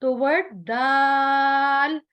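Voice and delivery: slow, careful letter name; letter dal demo. Shown as a demonstration. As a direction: sound out dal slowly. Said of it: "जबान की नोक ऊपर के दो दांतों के मसूड़ों से".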